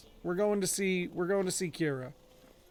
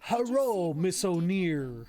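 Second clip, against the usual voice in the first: mildly imitated stereotypical Japanese accent, slowing on the name; light mock Japanese accent from an old movie; slower than usual. Foot soldier greeting a reporter, mock Japanese accent. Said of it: "in the most, like, stereotypical Japanese accent".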